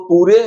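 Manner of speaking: पूरे in two syllables, "poo-ray"; long oo, then a voiced ending in पूरे; wrong spelling reading. Shown as a demonstration. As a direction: say पूरे with the final e sounded. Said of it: "नहीं बोलेंगे".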